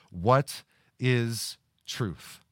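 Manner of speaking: a slow, drawn-out sarcastic question. Acted. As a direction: let the sarcasm drip, slowly. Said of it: "you can almost hear the sarcasm".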